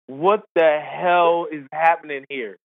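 slow, drawn-out mock disbelief; acted bewilderment. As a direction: stretch it out, imitating stunned onlookers. They had a look of like.

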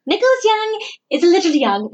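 sing-song, like reciting a bad poem; bad poem recital. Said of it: "That sounds like a bad poem".

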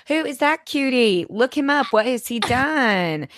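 high, eager voice for May; high excited imitation; imitating May. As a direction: mimic an excited older lady asking who the cutie is. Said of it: "She was like".

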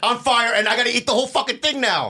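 high, fast, loud comic complaint; mock exasperation. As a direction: rattle it off in high-pitched mock dismay. Mock dismay at unwanted flaming dish.

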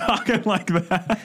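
a hint of an old New York gangster accent; lightly put-on 1940s gangster voice. Mimicking the friend's sudden gangster accent, lightly. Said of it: "he started talking with an accent".

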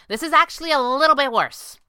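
high, loud, alarmed call; crying out. A narrator's reading. Kit to her companions as chamber quakes, loud cry. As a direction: cry it out over the rumble. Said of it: "Kit cried".

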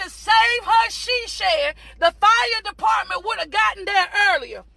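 driving, emphatic sermon delivery; fervent preaching. Real, not acted. Preacher encouraging people in a storm, fervent preaching. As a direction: preach it with rolling conviction.

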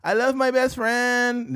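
put-on slow, high-pitched valley girl; mock valley girl gush. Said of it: "why is that, like, the standard voice now".

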